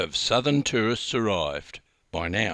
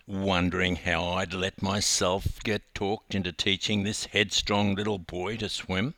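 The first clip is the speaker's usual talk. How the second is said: usual speaking voice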